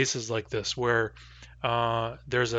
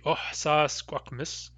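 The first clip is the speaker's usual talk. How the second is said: slow demo pronunciation; 5 dB quieter, slower than usual. Shown as a demonstration. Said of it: "the better way to say it".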